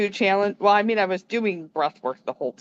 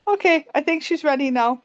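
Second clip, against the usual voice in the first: calmly; 6 semitones higher than usual. Retold or imitated. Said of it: "Just so calmly".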